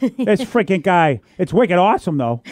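put-on Boston accent. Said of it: "Boston accents".

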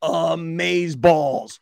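slow, stretched "amazeballs" with a rising end; drawn-out amazeballs. Shown as a demonstration. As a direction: draw out "amazeballs" slowly, then lift it. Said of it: "I still say amazeballs".

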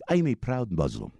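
emphatic mock Pakistani accent; bad Muslim accent. Driver declaring his faith, in a mock Pakistani accent. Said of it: "That's my really bad Muslim accent".

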